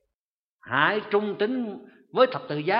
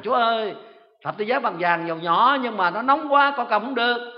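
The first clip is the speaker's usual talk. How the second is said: higher, louder startled complaint; crying out; 5 semitones higher, 4 dB louder than usual. Retold or imitated. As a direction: yelp to God after a burn. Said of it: "la lên rằng".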